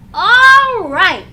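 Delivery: yell. A narrator's reading. Little brother cheering about camping, loud yell. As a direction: whoop it out like a happy kid. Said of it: "yelled Arthur".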